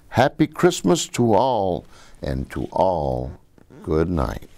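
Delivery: gentle read-aloud storytelling with a lilting rhythm; story reading. Acted. Grandpa reading a Christmas poem to the kids, storytelling cadence. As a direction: read it like a bedtime poem to children.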